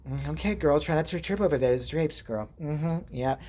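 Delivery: quiet, catty gay-slang imitation; soft mock sassy aside; lightly imitated sassy friend. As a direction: murmur shade at someone, lightly put on. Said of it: "He starts talking like that".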